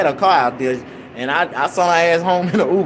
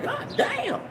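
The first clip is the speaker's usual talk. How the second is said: high hushed amazement; 8 dB quieter than usual. Retold or imitated. Amazed at emptied bottle.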